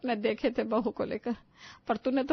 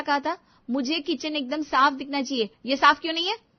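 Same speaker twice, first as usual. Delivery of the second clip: bossy scolding; 3 semitones higher than usual. Acted. Bride scolding about kitchen.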